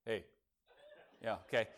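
low-key biker greeting; very cool. Pretend. Biker acknowledging a passing rider, playing it cool. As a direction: toss it off coolly, barely bothered. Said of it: "It's very cool. It's".

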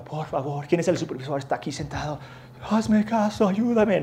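a desperate begging plea to the airport staff; pleading. Retold or imitated. Stranded traveller begging the clerk for help, pleading. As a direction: beg for help, pitch climbing at the end. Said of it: "pero rogando".

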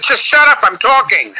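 very high, imitated mom outburst; mom's mock snap. Comic retells mom interrupting the call, high mock snap. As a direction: jump way up as a mother cutting off her child.

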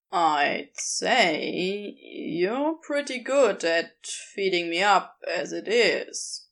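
slow, shy and gentle; bashful, softly offered. Acted. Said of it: "in a tone much softer".

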